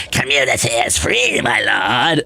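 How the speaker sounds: low, lordly put-on voice; Vivi. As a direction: deliver it like a solemn advisor to a lord. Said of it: "I don't know why you talk like that now".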